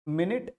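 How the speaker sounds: मिनट said as MIN-it; short i in both syllables of मिनट; time-unit pronunciation. Shown as a demonstration. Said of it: "एक को तो हम पढ़ेंगे".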